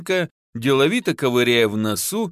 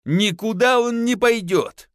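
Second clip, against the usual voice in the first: higher, slow, insistent mock yell; 9 semitones higher than usual. A narrator's reading. Wife clutching the son, a mild shout. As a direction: refuse him outright. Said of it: "заорала жена".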